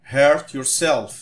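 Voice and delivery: hurt yourself drawn out very slowly and clearly; very slow teacher modelling of hurt yourself; slow model phrase. Shown as a demonstration. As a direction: spell out hurt yourself slowly for students to copy. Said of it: "قولهم معايا".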